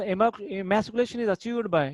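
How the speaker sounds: drawn-out classroom read-aloud; slow dictation. Shown as a demonstration. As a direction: slowly read out the exam question. Teacher reading next question aloud.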